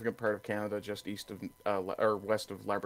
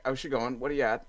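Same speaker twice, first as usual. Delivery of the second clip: put-on Newfoundland accent. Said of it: "if I were to put on the accent".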